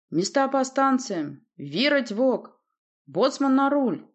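slow, loud, high shouted commands; bellowing orders. A narrator's reading. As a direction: bellow as if through a megaphone. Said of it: "орал громко, будто в мегафон".

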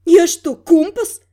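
high, loud surprised question; disbelieving girl's retort. Acted. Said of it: "нашла в себе силы удивиться девушка".

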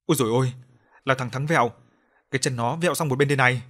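a touch of a frightened yelp; mild scared cry. Acted. Guard recoiling from the corpse, mild cry. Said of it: "rụt cổ thét".

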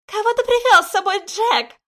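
high, loud stern crone; stern guardian. Acted. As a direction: demand it from above. Guardian demands.

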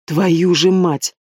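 slow, dragged-out furious oath; furious growl. A narrator's reading. Brother learning his own maid betrayed them, furious growl. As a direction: bite down hard on every word. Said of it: "зарычал яростно Рейхан".

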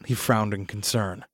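plain reading voice

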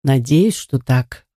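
low, gentle reassurance; tender. A narrator's reading. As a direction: say it kindly, letting the voice sink. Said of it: "ласково сказал мистер Берр".

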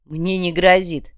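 a firm rebuff, said slowly; cut off curtly. Acted. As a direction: shut the topic down slowly and firmly. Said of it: "отрезал чемодан".

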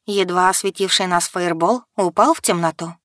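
ordinary delivery

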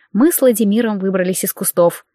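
usual speaking voice

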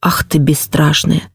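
put-on lingering girlish drawl, pitch leaping up at the end; drawn out. A narrator's reading. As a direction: stretch the words out in mock fright. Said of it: "протянула княжна".

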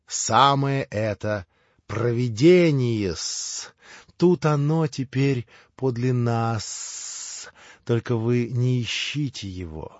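slow, measured, deliberate servant's voice; a hint of eerie calm; lightly voiced Smerdyakov. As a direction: drag out each word.

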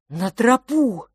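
high, urgent breathless call; urgent gasp. Acted. Fil urging his brother back to the path, an urgent gasp. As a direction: gasp out the warning. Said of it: "выдохнул Филипп".

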